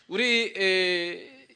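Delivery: ordinary delivery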